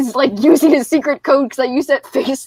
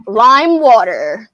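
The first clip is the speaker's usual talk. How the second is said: slow; 3 semitones lower, 4 dB louder, much slower than usual. Acted. Slow drawn-out order.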